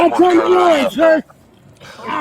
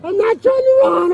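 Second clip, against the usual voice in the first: pained plea; 3 semitones higher, slower than usual. Real, not acted. Pinned man pleading in pain.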